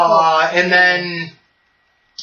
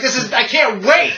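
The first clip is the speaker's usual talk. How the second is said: giddy gloating; 5 semitones higher than usual. Retold or imitated. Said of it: "He's like".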